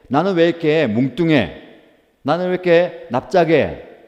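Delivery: a put-upon vessel fussing about its shape; whiny clay pot. Acted. Pot grumbling to the potter about being lumpy, whiny.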